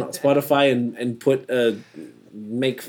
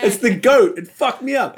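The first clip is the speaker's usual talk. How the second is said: laughing; 11 semitones higher, 5 dB louder than usual. Real, not acted. Laughing after goat bleat.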